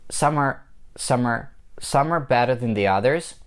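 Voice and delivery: "Some are" said like "summer"; fuse "Some are" into one word; blended words. Shown as a demonstration. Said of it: "the blending of these two words together".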